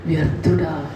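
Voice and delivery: gentle, sugary "వ్యర్థుడా" read slowly like the sister does; mock sweet reading. Preacher mimics a sister reading the verse, mock sweet. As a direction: soften "వ్యర్థుడా" into a sweet, polite call. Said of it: "ఎంత స్వీట్గా".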